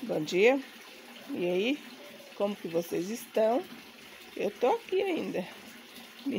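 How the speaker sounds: rough sick voice from flu; robotic, hoarse flu-worn voice. Real, not acted. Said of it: "com a voz de robô".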